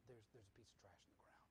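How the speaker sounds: soft, fast throwaway comment about trash; lazy remark. Retold or imitated. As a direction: toss it off quietly, not lifting a finger. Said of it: "and said".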